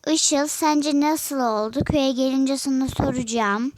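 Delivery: calling out. Real, not acted. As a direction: speak up as if Işıl can hear you. Calling out to cousin Işıl.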